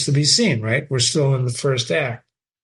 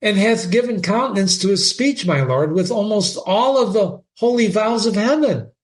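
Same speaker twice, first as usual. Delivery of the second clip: put-on higher, earnest girl; pleading daughter; 6 semitones higher than usual. Ophelia insisting to her father, pleading girl. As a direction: insist on his sincerity.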